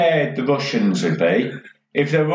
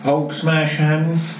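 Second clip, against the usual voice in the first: Hulk voice; much slower than usual. Retold or imitated. Echoes Hulk quote slowly.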